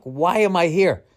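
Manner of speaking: high, loud exasperated cry; panicked outburst. Retold or imitated. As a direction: blurt it in mock panic. Panicking before the show.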